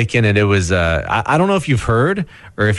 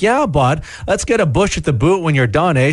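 mock rural Canadian accent, pitched higher; local small-town accent; 5 semitones higher than usual. Host imitates small-town locals in a mock rural Canadian accent. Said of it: "So I'm like".

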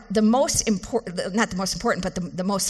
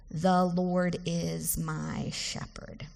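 tender confession; 3 semitones lower, 6 dB quieter, much slower than usual. Shown as a demonstration. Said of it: "a confession of your intimacy with the Lord".

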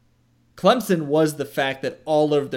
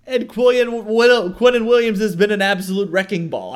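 emphatic; 7 semitones higher, 7 dB louder than usual. Real, not acted. Emphatic praise after being teased.

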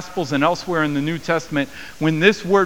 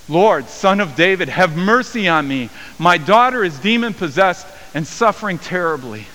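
pleading cry; 4 semitones higher, 4 dB louder than usual. Acted. Woman crying out to Jesus.

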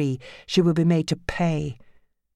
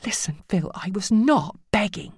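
pleading; 5 semitones higher than usual. Acted. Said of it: "she appealed".

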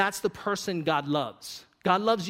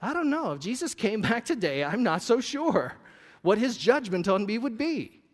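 voicing self-doubt; 3 semitones higher than usual. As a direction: wonder aloud, unsure of yourself. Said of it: "I come home and I go".

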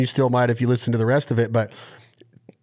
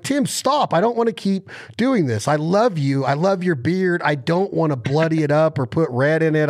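pleading with Tim; 3 semitones higher than usual. Retold or imitated. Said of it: "I'm like".

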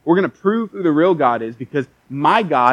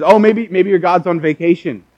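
teasing, scornful and a little louder; sarcastic jeer at the false prophets; mocking taunt; 3 semitones higher, 6 dB louder than usual. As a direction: taunt them like a bully on the playground. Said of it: "Elijah starts mocking them".

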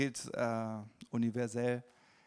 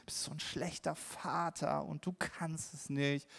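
inner accuser; 3 semitones higher, 5 dB quieter than usual. Retold or imitated. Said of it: "Die ganze Zeit nur Anklage, Selbstanklage".

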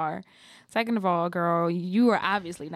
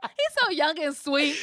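laughing mock pity; 6 semitones higher than usual. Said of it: "Chelsea goes".

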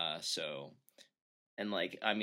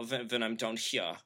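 German accent in a lower register. Shown as a demonstration. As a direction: show the German accent down low. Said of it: "I'm using a lower".

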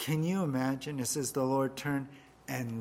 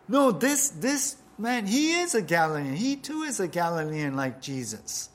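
pointing accuser; 4 semitones higher, 4 dB louder than usual. Acted.

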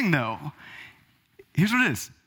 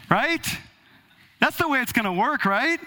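higher, tongue-in-cheek boast; mock grandiose; 6 semitones higher than usual. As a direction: ham up your own legacy. Mock grandiose self-importance.

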